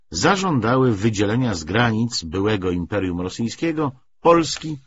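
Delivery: usual speaking voice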